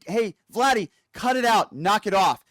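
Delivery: a limp, hammed-up warning; mocking Trump. Host again parodies Trump scolding Putin, mildly hammed-up. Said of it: "Except, hey".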